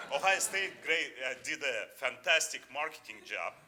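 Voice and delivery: awed praise of Ohio State; excited praise. Real, not acted.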